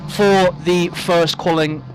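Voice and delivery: short of breath from shouting. Real, not acted. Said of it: "need to catch my breath back".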